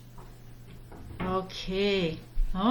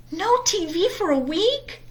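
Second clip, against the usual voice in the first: high, disbelieving cubs; shocked; 8 semitones higher than usual. Acted. Cubs hear of no TV for a week, high and shocked. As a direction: gasp it out in disbelief. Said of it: "said the shocked cubs".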